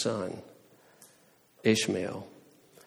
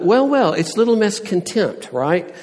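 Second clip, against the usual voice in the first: high, loud sneering "well, well"; loud mocking taunt in God's imagined voice; 10 semitones higher, 6 dB louder than usual. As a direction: sneer it like a smug accuser. God imagined mocking her.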